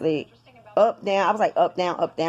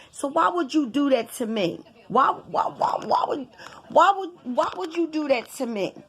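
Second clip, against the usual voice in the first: higher-pitched, stammering retold reproach; insistent, repeating complaint from an argument; aggrieved protest; 6 semitones higher than usual. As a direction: keep demanding it, wounded and indignant. Acted quarrel with partner.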